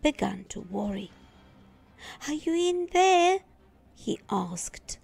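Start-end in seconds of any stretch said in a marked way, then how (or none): 2.3-3.4 high, loud call into the dark. Acted. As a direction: boyish voice calling out, unsure. Boy calling into dark room.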